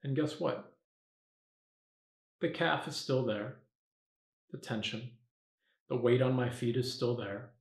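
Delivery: softened meditation voice with long pauses; guided meditation. Acted. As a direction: talk yourself gently into focus. Guides meditation by own example.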